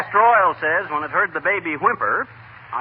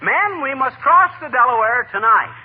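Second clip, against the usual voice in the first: slow, grand, louder proclamation; rally the troops across the river; orating Washington; 4 semitones higher, 3 dB louder than usual. Acted. McGee acting Washington's speech to Molly, grand.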